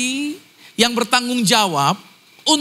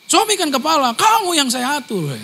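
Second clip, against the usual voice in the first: bossy husband; 7 semitones higher than usual. Retold or imitated. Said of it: "Saya bisa bilang".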